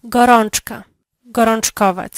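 ordinary delivery

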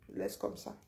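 soft whispered aside. Real, not acted. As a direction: drop to a voiceless whisper. Repeat trailing into whisper.

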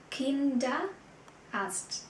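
Kinderarzt drawn out very slowly, syllable by syllable; slow model word. Shown as a demonstration. Teacher slowly models Kinderarzt for students, very slow. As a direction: stretch Kinderarzt out for learners. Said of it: "der Kinderarzt".

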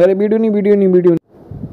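high-pitched mock girl's protest; hammed-up girl voice; imitating a girl. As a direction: squeak out a girl's pleading refusal. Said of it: "उसे कहने".

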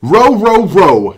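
loud wordy dog howl; dogs barking. Acted. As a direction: bark it out like cheering dogs. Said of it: "said the dogs".

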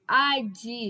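"admitir" broken up as ad, mi, tir; syllable by syllable. Shown as a demonstration. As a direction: pause between each syllable of "admitir". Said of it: "pronunciando as palavras por sílabas".

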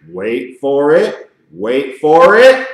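slowed, drawn-out teasing; slow suspense buildup. Shown as a demonstration. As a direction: stretch it out before the reveal.

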